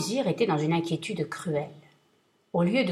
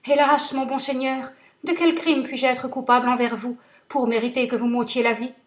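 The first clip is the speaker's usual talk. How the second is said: higher, pleading, frightened; trembling plea; 5 semitones higher, 4 dB louder than usual. Acted. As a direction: beg for your life, voice rising. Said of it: "lui répondit en tremblant".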